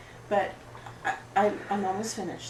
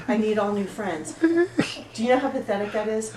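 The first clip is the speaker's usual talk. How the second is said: louder, whining rant about friends; self-pitying rant; 6 dB louder than usual. Acted. Beth to the support group, a loud self-pitying wail. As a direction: wail it out, feeling sorry for yourself.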